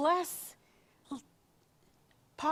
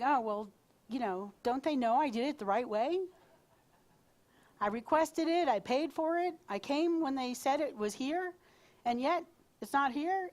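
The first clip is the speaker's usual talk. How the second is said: indignant ego; 3 semitones higher than usual. Retold or imitated. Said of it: "all spun up in my head, in my ego".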